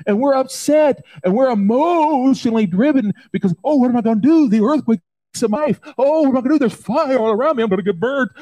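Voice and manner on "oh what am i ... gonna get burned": mock panic. Preacher voices a worried believer with mock panic. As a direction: whine like someone scared of what's coming. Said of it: "we're all freaking out".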